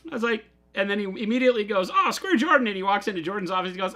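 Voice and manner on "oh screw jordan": high, louder retold brush-off; mock dismissive. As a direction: wave Jordan off, pitched up and louder. Retold Chris dismissing Jordan.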